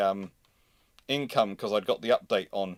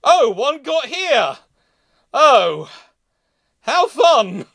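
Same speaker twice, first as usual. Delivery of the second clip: high, loud, hammed-up cheer; gleefully shrieking at the blast; mock delight; 14 semitones higher, 13 dB louder, much slower than usual. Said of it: "and you go".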